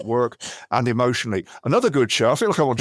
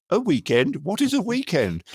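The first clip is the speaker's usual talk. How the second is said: mock aristocratic dowager; 5 semitones higher than usual. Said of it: "the only fucking thing she ever said".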